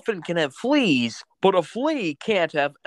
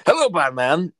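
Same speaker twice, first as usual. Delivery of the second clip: John Oliver as the Joker. Acted. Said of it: "do John Oliver as, uh, the Joker".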